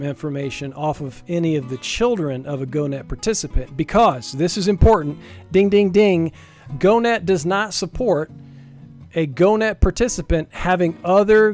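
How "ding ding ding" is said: loud, punchy "ding, ding, ding"; mock alert bell. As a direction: ring it out like a bell to flag a key point. Imitated alert bell for important point.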